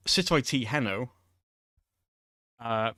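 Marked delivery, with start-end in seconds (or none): 0.1-1.1 "sut o'i ti" lifted, then "heno" said "HEN-o"; careful Welsh phrase read-out; Welsh demo. Shown as a demonstration. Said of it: "so I can say them again".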